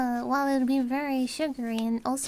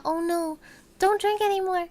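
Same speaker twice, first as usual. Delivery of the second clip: mock alarm; 3 semitones higher, 4 dB louder than usual. Friend sneezes at coffee.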